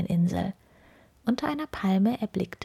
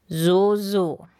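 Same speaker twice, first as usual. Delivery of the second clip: friendlier grumble; 7 dB louder than usual. A narrator's reading. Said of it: "brummte er nun etwas freundlicher".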